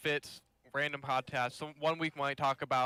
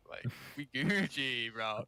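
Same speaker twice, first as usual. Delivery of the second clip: put-on slow Indian accent voice; lightly put-on Indian accent; 2 semitones lower, slower than usual. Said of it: "I got my Indian voice down".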